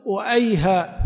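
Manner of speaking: أيها with the final letter cut, ayhā; وأيها ending open on the long a; أيها without the final t; last letter dropped. Shown as a demonstration. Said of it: "بحذف الأخير".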